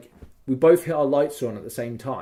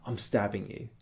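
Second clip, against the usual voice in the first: soft, lowered, menacing half-whisper; retold whisper; 5 semitones lower, 10 dB quieter than usual. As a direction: lean in and say it quietly. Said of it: "whispers to me".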